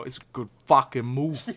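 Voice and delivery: dad's Boston movie voice; Boston guy, laughing through it; Boston accent. Retold or imitated. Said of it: "in that voice".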